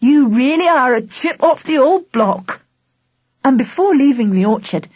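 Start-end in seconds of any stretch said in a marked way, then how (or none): 0.1-2.6 lightly voiced grandad, lifted in pitch; a hint of an amused grandad. A narrator's reading. Grandad to Charlie after gathering the fruit, lightly voiced.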